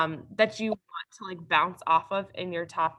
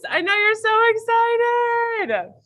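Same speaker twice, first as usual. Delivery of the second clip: higher, louder sarcastic tease; 12 semitones higher, 6 dB louder, faster than usual. Pretend. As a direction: ham up the fake excitement.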